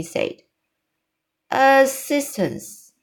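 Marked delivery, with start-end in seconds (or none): 1.5-2.9 slow, higher-pitched, mildly beaming word; a touch of proud delight, stretched out. Acted. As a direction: offer it with a drawn-out smile in the voice.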